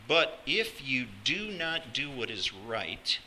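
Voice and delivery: slow, weighty warning; grave warning. Acted. God cautioning Cain about sin, slow warning. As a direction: spell out the danger word by word, slowly. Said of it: "remarkable warning".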